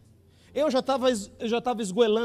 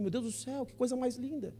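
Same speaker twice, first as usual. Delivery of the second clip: hushed and awed, much softer; 3 semitones higher, 8 dB quieter than usual. Retold or imitated. Convert marvelling softly at God's meaning of sacrifice. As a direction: breathe it out in quiet wonder.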